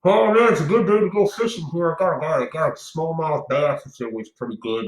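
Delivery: high mocking voice, unhurried; masked hiker parody. Mocking a masked fisherman out in the wild, high put-on voice. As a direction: parody a masked angler out fishing. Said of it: "with one of these".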